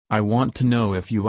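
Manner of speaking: "you" emphasized like a finger poke; stress on YOU. A narrator's reading. Daughter pressing her daddy for an answer, emphatic on "you". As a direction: lean on "you" at the end. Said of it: "I emphasized the word".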